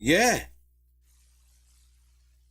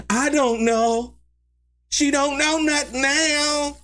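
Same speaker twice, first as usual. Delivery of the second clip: slow mock; 6 semitones higher, slower than usual. Mocking witness.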